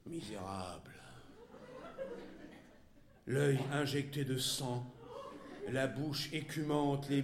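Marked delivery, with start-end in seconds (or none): 0.1-0.9 very low, quiet, choked with rage; hoarse fury. A narrator's reading. Wife advancing on her husband, hoarse fury. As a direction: force the word out low, like a raucous belch. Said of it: "éructations rauques".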